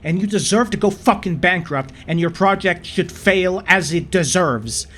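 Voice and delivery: emphatic rant, hammering the key words; angry condemnation. Real, not acted. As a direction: lay into it with exasperated force. Furious verdict on the software.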